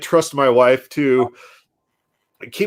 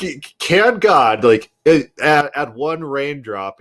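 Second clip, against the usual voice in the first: laughing mock repeat; 2 semitones higher, slower than usual. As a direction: repeat it back laughing, incredulous. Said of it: "He's like".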